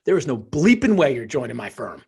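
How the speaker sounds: imitating dad's Bronx bluntness; thick Bronx accent. Father refusing his son a job, thick Bronx accent. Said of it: "in his very thick Bronx accent".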